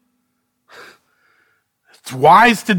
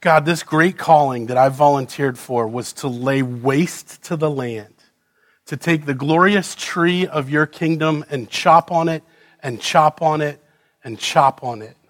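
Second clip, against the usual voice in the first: lower, softer, heavy; bleak lament; 5 semitones lower, 5 dB quieter than usual. Acted. Preacher lamenting his calling to God, low and heavy. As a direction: mourn it as you chop.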